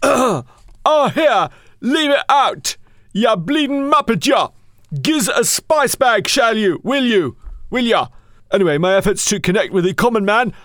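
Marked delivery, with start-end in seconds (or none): 0.0-4.5 put-on working class Dublin accent. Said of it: "learning the working class lingo". 5.0-8.1 put-on working class Dublin accent. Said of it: "learning the working class lingo".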